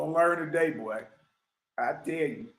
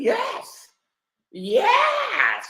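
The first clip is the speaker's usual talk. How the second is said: mocking squeal; 4 dB louder than usual.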